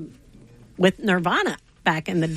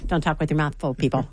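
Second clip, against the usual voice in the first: mock scolding; 5 semitones lower than usual. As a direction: pretend to scold the guests. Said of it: "I'm just kidding".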